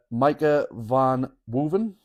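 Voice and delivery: "Micah Van Woeven" said slowly, every syllable spelled out; careful name pronunciation. Shown as a demonstration. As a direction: sound out "Micah Van Woeven" deliberately, slow. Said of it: "you've done well there saying that name".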